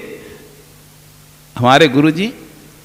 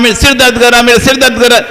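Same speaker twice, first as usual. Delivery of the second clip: mock whining patient; 7 semitones higher, faster than usual. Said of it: "चिल्ला रहा है".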